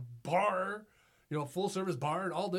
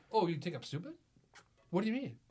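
mock indignation; 6 semitones higher than usual. Mocking a stranger who calls him tall, mock indignation. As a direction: play offended and sarcastic.

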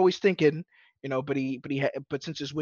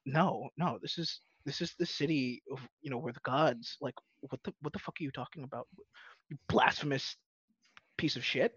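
hushed outrage; 7 dB quieter than usual. Retold or imitated. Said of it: "But everyone's just like".

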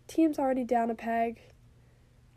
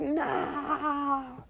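laughing mock scream; 2 semitones higher than usual. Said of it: "she screamed at the spear".

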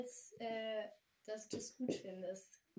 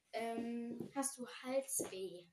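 whispering. Real, not acted. Whispered question during game.

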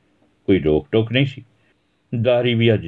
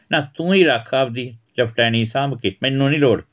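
higher voice, sharp and sarcastic; bickering wife; 6 semitones higher than usual. Acted. Wife taunting her husband who fled the army, sarcastic. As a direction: needle the husband right back.

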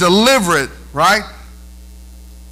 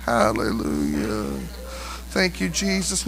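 much lower, soft, slow praise; quiet worship murmur; soft hallelujah; 12 semitones lower, 10 dB quieter, slower than usual. Real, not acted. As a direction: breathe it out in awe.

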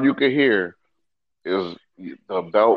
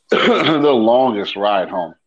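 drawing out "longest" slowly; stretched out slow; 3 dB louder, much slower than usual. Real, not acted. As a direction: drag out "the longest ride home". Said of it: "stretched for emphasis".

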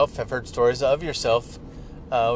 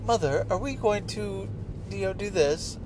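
put-on high-pitched little girl with a Peppa Pig accent; high, mock Peppa Pig accent; 7 semitones higher than usual. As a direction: imitate a granddaughter's cute Peppa Pig accent. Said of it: "it is a little Peppa Pig accent".

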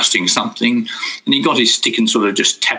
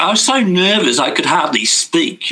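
normal talking voice

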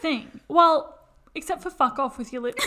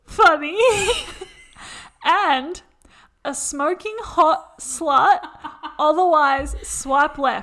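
louder, giggling through the list; stifled giggles; 2 semitones higher, 6 dB louder, slower than usual. Real, not acted. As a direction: fight back the giggles while reading. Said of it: "I was trying not to laugh".

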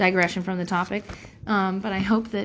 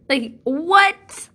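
disbelief; 8 semitones higher, 7 dB louder than usual. Real, not acted. Still shocked at his praise.

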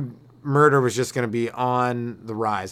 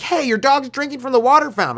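lady's complaint, voiced much higher; a scolding passer-by, pitched way up; mock complaining lady; 10 semitones higher, 3 dB louder than usual. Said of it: "this lady was walking by".

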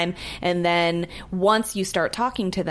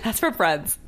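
Buffalo Bill voice; slower than usual. Acted. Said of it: "that was that same Buffalo Bill voice".

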